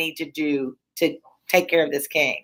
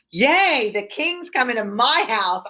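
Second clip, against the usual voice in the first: excited gasp; 5 semitones higher, slower than usual. Pretend. Teacher voicing scheming Lady Macbeth.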